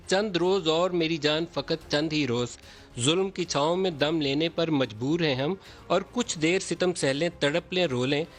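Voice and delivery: reciting Faiz verse with measured poetic phrasing; poem recitation. Acted. News host recites a Faiz poem for both leaders, poetic recitation. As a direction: recite the couplets line by line, like a poem. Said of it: "اس کا ایک آدھ مصرع پڑھوں گا".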